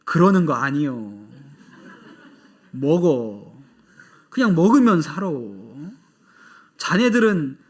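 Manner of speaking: folksy Chungcheong dialect scolding. Retold or imitated. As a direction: imitate the old pastor's Chungcheong dialect. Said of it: "충청도 사투리로 이렇게 얘기하셨어요". (구수한 충청도 사투리)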